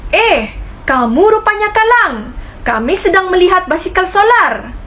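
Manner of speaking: Maria's voice. Acted. Maria voiced in class dialogue.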